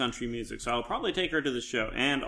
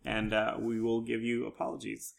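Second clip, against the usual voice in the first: ordinary talk, nothing marked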